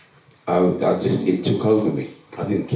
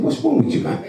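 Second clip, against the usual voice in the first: a much higher, fed-up question; retold irritation pitched way up; exasperated retort; faster than usual. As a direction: toss it back in disbelief. Retold clash with second counsellor.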